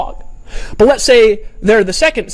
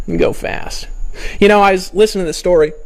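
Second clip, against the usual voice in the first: usual speaking voice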